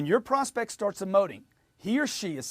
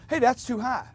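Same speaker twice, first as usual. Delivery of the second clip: higher, punchy mock-angry objection; angry customer; 7 semitones higher, 4 dB louder than usual. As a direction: push back like an irritated buyer. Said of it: "no emotion from the customer or anger".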